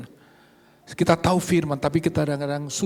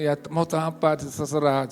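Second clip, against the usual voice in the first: calm yielding; 3 semitones lower, slower than usual. Retold or imitated. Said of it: "saya diem aja".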